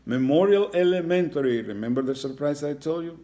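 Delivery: high, loud announcement to the class; spring the surprise on them; excited reveal. Real, not acted. Teacher revealing the school name to pupils, high and loud.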